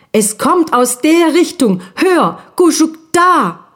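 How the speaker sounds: high, eager little sister calling out; excited little ghost girl. Acted. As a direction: point it out, bursting with excitement. Guschugina ruft aufgeregt ihren Bruder. (aufgeregtes kleines Geistermädchen, hoch)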